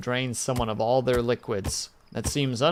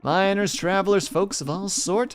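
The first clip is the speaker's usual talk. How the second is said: hearty frontier innkeeper welcome; cowboy saloon owner; 4 semitones higher than usual. Acted. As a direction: hail the stranger like a cheerful barkeep. Voices saloon owner Kale.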